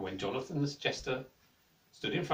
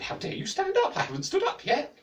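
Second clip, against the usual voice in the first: queen berating the jester, furious. A narrator's reading.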